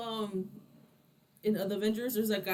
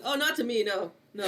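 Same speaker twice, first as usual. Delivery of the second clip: laughing. Pretend. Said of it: "It's like".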